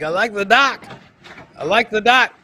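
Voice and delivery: high, loud excited voice; hammed-up thrilled dad; excited mock dad. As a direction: squeal it like a kid at the dock. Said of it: "He's like".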